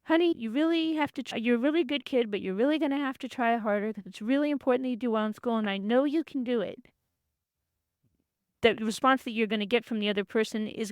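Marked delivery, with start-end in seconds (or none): 0.0-6.8 a light touch of a tender mother; nurturing parent voice. Retold or imitated. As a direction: gently urge the child on. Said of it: "a nurturing parent voice".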